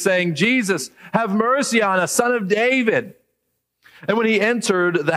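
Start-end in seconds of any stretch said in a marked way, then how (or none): 0.3-3.2 crying out. Retold or imitated. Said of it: "they're crying out to Jesus".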